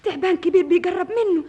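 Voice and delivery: high, loud warning cry; alarmed shout. Acted. Sister yelling as the snake closes in, alarmed. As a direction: shout the danger out.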